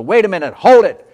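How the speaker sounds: rising to a high, loud scream; desperate shouted plea. Retold or imitated. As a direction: yell after the man carrying off his son. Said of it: "I screamed at the man".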